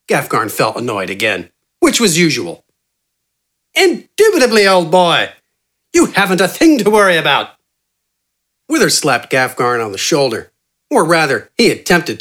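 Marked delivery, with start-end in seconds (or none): 3.7-7.5 excited yell. A narrator's reading. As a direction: burst out with gleeful triumph. Wither confident.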